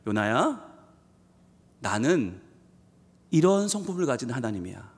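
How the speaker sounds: low, soft fatherly reassurance; God's tender voice. Acted. God speaking softly to Jonah, tender. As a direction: gently tell Jonah who you are.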